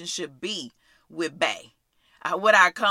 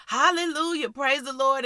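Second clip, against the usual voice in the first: higher-pitched, rattled-off church greeting; mock praise; 5 semitones higher than usual. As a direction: imitate a showy hallelujah. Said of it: "I'm not talking about just, like".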